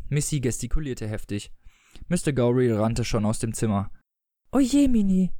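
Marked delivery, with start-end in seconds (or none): 4.5-5.3 high exclamation of mock dismay; calling out. A narrator's reading. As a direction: cry it out in a raised pitch. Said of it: "rief Missy". (hoher, gespielter Ausruf)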